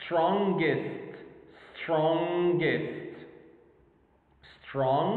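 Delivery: "strongest" with a long first syllable, short "gest"; two-syllable demonstration. Shown as a demonstration. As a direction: model "strongest" slowly, hard g after ng. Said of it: "We got only two syllables".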